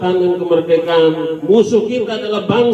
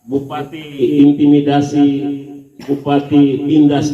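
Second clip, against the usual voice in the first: lower, drawn-out quote of complainers; imitated complaint; 4 semitones lower, slower than usual. Regent quoting those who accuse him of oppression, slow imitated complaint. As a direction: echo their accusation slowly, pitched down. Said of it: "Jadi kalau hari ini mereka bilang".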